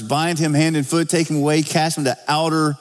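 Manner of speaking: preacher quoting scripture aloud; scripture reading. Acted.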